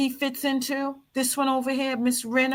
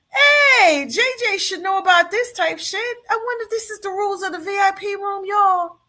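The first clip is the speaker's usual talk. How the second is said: excited call-out; 5 semitones higher than usual. Real, not acted. Host calls out to JJ about VIP rules, excited and fast. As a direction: call out to JJ all worked up.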